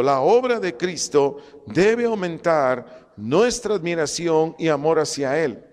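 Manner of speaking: slow, deliberate stress on obra; slow emphatic repetition. Shown as a demonstration. Preacher drives home the main point, slow emphatic stress. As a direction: lean on obra and amor slowly.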